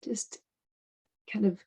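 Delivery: unhurried guidance with long pauses; guided meditation. Acted. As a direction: ease them into the breath, leaving space between phrases.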